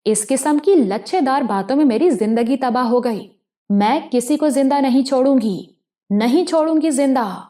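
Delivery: a hint of unhinged fury; like a madwoman. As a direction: spit out the vow as she loses control. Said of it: "اس نے پاگلوں کی طرح کہا".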